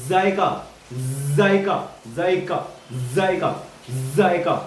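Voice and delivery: जख्मी, जुल्म, जायका each begun on a buzzing z; isolated drill words, z in जुल्म stressed; pronunciation drill. Shown as a demonstration. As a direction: repeat जायका with a clear z, word by word. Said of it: "तो आप भी practice करिए".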